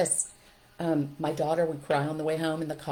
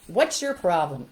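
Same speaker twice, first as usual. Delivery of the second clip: louder, drawn-out teacher's rebuke; exasperated scolding; 5 dB louder than usual. Retold or imitated. Trainer imitating teachers talking to a child, exasperated.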